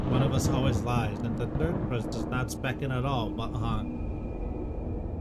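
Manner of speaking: lightly voiced solemn forest folk, old-fashioned speech; a hint of a grave medieval woodcutter questioning trees; archaic woodland dialogue. Voices archaic tree characters in dialogue.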